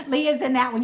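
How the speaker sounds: said through real laughter; words carried on a laugh. Real, not acted. Laughing to the live chat about Leah's video.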